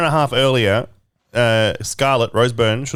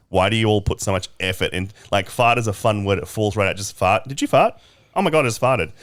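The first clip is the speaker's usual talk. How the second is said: imitating Australian guy; 2 semitones lower, faster than usual. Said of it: "Australian, did a TikTok being like".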